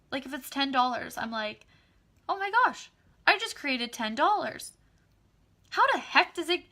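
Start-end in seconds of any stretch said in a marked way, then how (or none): 2.3-4.7 high and loud happy astonishment; thrilled amazement. Retold or imitated. Amazed at ten dollars. 5.7-6.6 put-on high, loud childlike wonder; little kid voice. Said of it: "I said that funny, like a little kid".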